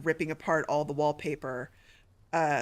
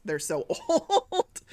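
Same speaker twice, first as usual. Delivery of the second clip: emotional; 11 semitones higher, much slower than usual. Real, not acted. Streamer describing an aged beloved cat, emotional and drawn-out. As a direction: stretch it out, half laughing through grief. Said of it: "I'm getting a little emotional".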